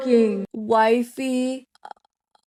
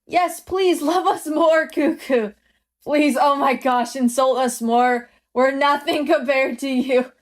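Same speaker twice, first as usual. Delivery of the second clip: adoring fans. Acted. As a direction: beg the idol to keep insulting you. Devoted fans beg the idol.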